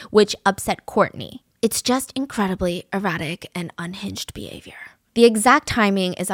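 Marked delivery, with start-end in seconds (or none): 1.6-4.7 whispered, hushed judgment; whispered aside. Real, not acted. Narrator whispering a judgment to viewers about the couple. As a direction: drop to a whisper for the verdict.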